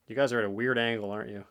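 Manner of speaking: panting, out of breath; breathless from exertion. Real, not acted. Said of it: "Sorry, I'm out of breath".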